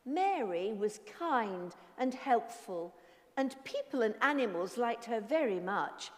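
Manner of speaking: story narration. A narrator's reading. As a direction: read it like a children's story.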